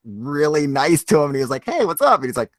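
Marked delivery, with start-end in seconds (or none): 1.6-2.2 high alien voice. Retold or imitated. Alien greets the hunter.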